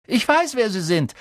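high, loud eager blurt. A narrator's reading. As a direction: burst out with it. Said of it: "platzte Ron los". (aufgeregt herausplatzen)

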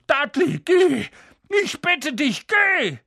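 high, strained pleading; pleading uncle. A narrator's reading. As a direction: beg him desperately to go. Vernon pleads, still breathless.

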